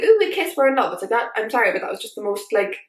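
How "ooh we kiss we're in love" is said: higher, swooning mockery; mock romantic. Vlogger mocking the Ron and Hermione ending, with swooning mockery. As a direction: scoff at the sudden movie romance. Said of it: "at the end, it's like".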